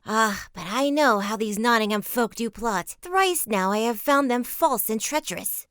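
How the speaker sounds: high, loud, outraged yeoman; angry loyal follower denouncing Nottingham folk; indignant Stuteley. A narrator's reading. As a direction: rail against the rigged games.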